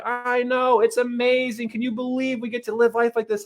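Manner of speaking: high, mock-tearful gushing; imitated crying wife. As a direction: imitate a wife overcome with happy tears. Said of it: "she's crying and she's like".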